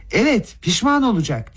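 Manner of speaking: tiz perdeden bağırarak tehdit; bağırış. A narrator's reading. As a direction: perdeyi yükseltip seslen. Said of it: "diye bağırdı Rogojin". (Rogojin gibi yüksek perdeden bağırarak)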